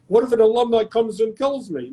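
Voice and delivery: a hint of a fretful Larry David; lightly voiced neurotic Larry David worry; Larry David impression. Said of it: "Now it's the same Larry David voice".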